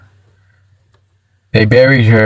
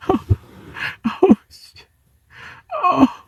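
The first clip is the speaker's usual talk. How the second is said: high, breathless laughing exclamations; laughing helplessly; 12 dB quieter, much slower than usual. Real, not acted. Streamer unable to stop laughing at Sosa, wheezy helpless laughter. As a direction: squeeze it out softly through laughter.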